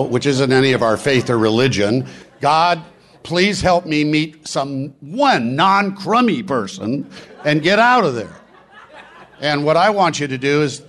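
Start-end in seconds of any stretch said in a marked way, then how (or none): 2.4-8.4 slow, higher mock plea with a laugh; mock selfish prayer. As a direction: mockingly pray to just survive the room. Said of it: "you say the networking competitive prayer".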